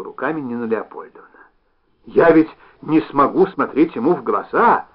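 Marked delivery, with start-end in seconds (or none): 2.1-4.9 stagey exclaim, like a line from a play; theatrical exclamation. Acted. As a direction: overplay it a little, like an actress. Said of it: "чуть театрально воскликнула она".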